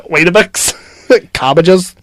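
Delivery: slow, laughing Irish impression; giggly put-on Irish; mock Irish accent. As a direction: stretch the words in a jokey Irish accent. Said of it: "the Irish is like".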